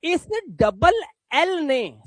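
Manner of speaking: इस double L ने spelled out slowly; slow emphasis. Shown as a demonstration. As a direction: lay it down slowly for the class. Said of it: "इस ए की आवाज को ओ कर दिया".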